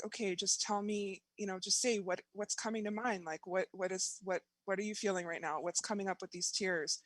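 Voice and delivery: softly retold practitioner's prompting; soft, lightly acted therapist talk; gentle coaxing. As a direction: coax someone quietly through their tears. Voicing practitioner gently coaxing her.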